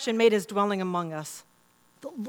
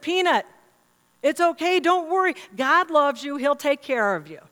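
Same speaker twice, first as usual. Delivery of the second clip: raised, higher calling voice; dad yelling out; 4 semitones higher, 4 dB louder than usual. Retold or imitated. Husband calls from his easy chair to daughter, mild imitated yell. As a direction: call out reassurance across the house. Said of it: "yelled out to her".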